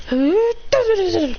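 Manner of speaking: high "ah" effect; attack noise. Acted. Lycanroc throwing rocks, high imitated attack noise.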